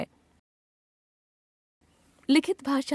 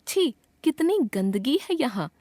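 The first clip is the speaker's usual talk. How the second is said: higher-pitched, lightly acted disgust; mild disgust; 5 semitones higher than usual. Shown as a demonstration. Teacher gives example of exclaiming at filth, mildly disgusted. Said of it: "घृणा".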